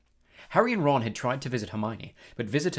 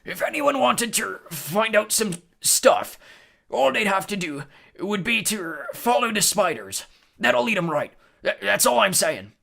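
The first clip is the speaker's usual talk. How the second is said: high, loud, deliberate character voice; careful Hagrid; 10 semitones higher, 7 dB louder than usual. A narrator's reading. Hagrid hints to the hidden boys, carefully. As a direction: drop a pointed hint carefully. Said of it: "and said carefully".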